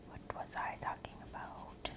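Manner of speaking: very soft, voiceless whisper; barely audible whisper. Real, not acted. ASMR creator asking self what the topic was, faintest whisper. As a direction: repeat it to yourself under your breath. Repeats the question to self, hushed.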